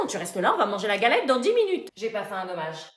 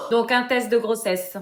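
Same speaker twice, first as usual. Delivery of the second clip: loud teasing; 3 dB louder, slower than usual. Acted. Pharmacienne repete fort.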